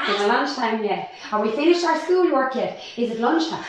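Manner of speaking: imitating a bored kid asking for lunch; a light mock of the kids' nagging; mock whiny kid. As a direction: whine it like an impatient child. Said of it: "The questions are".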